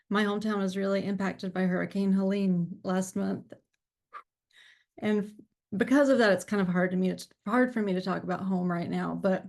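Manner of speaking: real tears held back, voice wavering; fighting to keep it together while talking about home; emotional, close to tears. Real, not acted. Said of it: "the reason I'm getting emotional".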